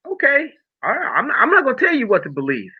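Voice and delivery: high, quick laughing aside; amused, laughing concession. Real, not acted. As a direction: chuckle and wave the doubters off. Laughs off skeptics.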